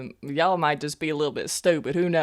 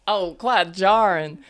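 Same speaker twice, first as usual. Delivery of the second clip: mocking echo; 2 semitones higher, 3 dB louder, slower than usual. Throws the companion's words back.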